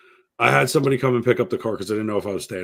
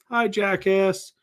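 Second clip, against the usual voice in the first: high, drawn-out teasing holler; mocking call-out; 9 semitones higher, much slower than usual. Buddy calling to his friend in the wrong car, teasing. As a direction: imitate a buddy taunting, stretched out and high.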